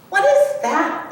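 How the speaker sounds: a startled little cub. Acted. Little cub frightened by the falling ice, startled.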